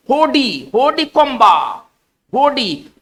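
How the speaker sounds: होडी कोम्बा said slowly, stress on होडी; French pronunciation. Shown as a demonstration. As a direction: sound out होडी कोम्बा for the class. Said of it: "है ना, पढ़ेंगे". (होडी कोम्बा धीरे, होडी पर ज़ोर)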